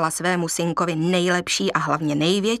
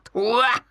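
hyena cackle; 2 semitones higher than usual. Acted. Hyena shows how to cackle.

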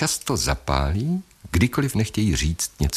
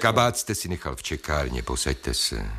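calming; 3 semitones lower, 6 dB quieter than usual. Acted. Doctor calms patient.

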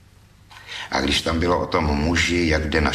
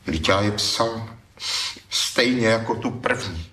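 a touch of a plaintive wail, pitched up; plaintive protest; 5 semitones higher than usual. Acted. Young thief protesting to the critic, mildly plaintive. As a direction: complain like a hurt young poet. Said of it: "zaupěl hlas".

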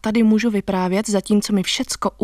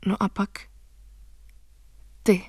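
ordinary delivery

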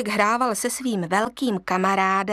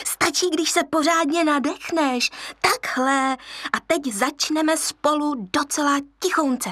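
hyena teacher; 5 semitones higher than usual. Acted. Hyena teaches lion laughing.

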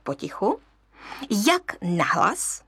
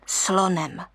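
plain reading voice

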